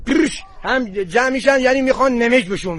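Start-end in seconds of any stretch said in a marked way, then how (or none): 0.1-0.4 trilled call to the sheep; herding call. Shown as a demonstration. Shepherd shows a visitor how the flock is called, herding call.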